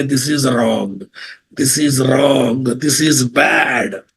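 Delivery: slow, deliberate machine verdict; robotic tool voice. Pretend. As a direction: spell it out like an automated checker. Code review tool flags errors.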